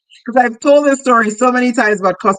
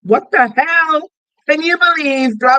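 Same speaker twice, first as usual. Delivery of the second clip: excited disbelief; 7 semitones higher than usual. Shown as a demonstration. Coach showing how she would word her script, amazed. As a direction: tell a friend unbelievable news, pitched up. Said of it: "If you would message your friend and say".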